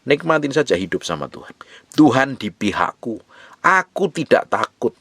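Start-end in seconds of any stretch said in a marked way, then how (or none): 1.9-5.0 slow declared verse. Shown as a demonstration. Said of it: "quoted verse read aloud".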